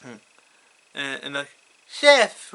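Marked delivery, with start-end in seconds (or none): 1.9-2.5 surprised cry. Acted. Kids surprised to see the ghost.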